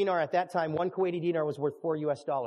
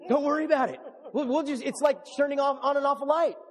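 laughing preacher; 10 semitones higher, 6 dB louder than usual. Retold or imitated. Preacher acting out own sermon.

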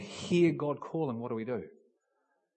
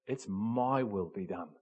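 soft voice of God; 7 semitones lower, 5 dB quieter than usual. Retold or imitated. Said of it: "But God says".

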